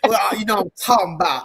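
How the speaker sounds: "talking about" squashed into "talmbout"; friends' slang. Retold or imitated. Imitating Black friends for the co-host, slurred "talking about". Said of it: "my Black friends would always say".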